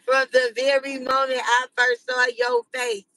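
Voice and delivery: laughing while gushing; hammed-up romantic gush, giggling; mock love speech through laughter. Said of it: "a whole speech".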